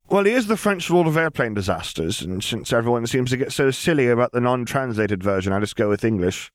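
put-on young girl Lily. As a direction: say it lightly, as if it's nothing. Lily explaining.

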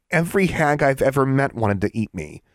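put-on high-pitched, protesting young witch; incredulous girl. A narrator's reading. Alexandra to the lecturing hag, incredulous. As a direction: protest it in disbelief.

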